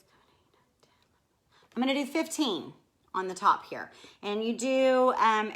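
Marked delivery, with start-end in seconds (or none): 0.0-1.8 whispered counting, trailing off; whispering. Real, not acted. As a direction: count under your breath. Counting squares under her breath.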